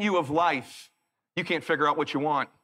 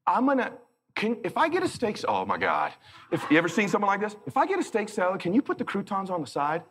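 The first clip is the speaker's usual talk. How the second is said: dithering wife voice; 3 semitones higher than usual. Retold or imitated. Wife ordering indecisively.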